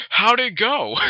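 lightly voiced surfer brother. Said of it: "Oh, surfer voice".

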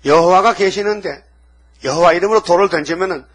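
put-on a boy's fervent faith pouring out; bold declaration. David boldly addresses king.

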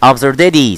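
ABSURDITY run together, T turned to D; quick, light D. Shown as a demonstration. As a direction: say "absurdity" in one go, ending dee. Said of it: "على السريع اخطف كده".

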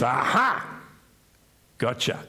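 a hint of a taunting devil; mild gotcha glee, lightly voiced; gloating Satan. Preacher voicing Satan catching the sinner, mock gloat.

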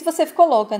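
loud, high-pitched disbelief; incredulous outburst. Acted. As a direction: burst out in acted indignation. Quarrel, incredulous at her demand.

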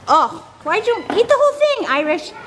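high, playful scolding of a horse; pet talk. Real, not acted. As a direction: tease the greedy horse. Teasing the horse.

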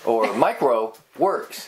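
"Mike Rowe" together, pause, then "Works"; regrouped name with pause. Shown as a demonstration. Host trying a third grouping, pause between "Mike Rowe" and "Works". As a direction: break after "Rowe", set "Works" apart. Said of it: "those three words".

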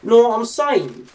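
a touch of cockney accent; slipped-in cockney. Real, not acted. Gamer chatting to viewers, slipping into cockney. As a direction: let a little cockney slip out. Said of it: "Got a bit cockney on you there".

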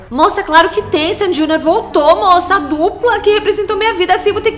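high, strained pleading over a lost idol; wailing plea. Acted. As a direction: beg the attendant in a high wail. Desperate customer pleading over a pop duo. (súplica aguda e chorosa à atendente)

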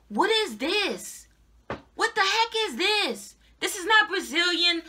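real indignation, pitch jumping up in disbelief; mad. Real, not acted. Vlogger showing viewers the wrong hair she received, mad and incredulous. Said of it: "I'm so mad".

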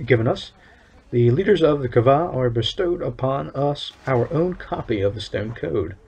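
lightly voiced stern official, measured and solemn; town overseer. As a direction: read it as a proud town overseer laying down the law. Reads overseer's NPC lines.

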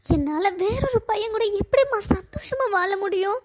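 holding back tears as she speaks; tearful. Acted. Bride-to-be pleads alone with her late mother, tearful. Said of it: "அழாதம்மா".

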